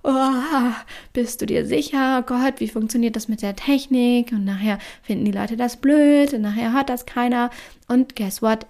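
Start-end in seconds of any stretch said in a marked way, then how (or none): 0.0-7.5 anxious inner voice. Retold or imitated. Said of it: "mein Körper hat gesagt".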